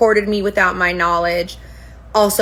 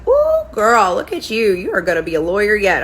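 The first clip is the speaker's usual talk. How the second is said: impressed squeal. Retold or imitated. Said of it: "she's like".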